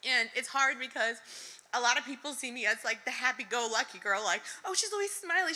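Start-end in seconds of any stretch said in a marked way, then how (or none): 4.7-5.5 high, bubbly imitation; imitating admirers. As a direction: voice what others say about you. Voices what people say of her.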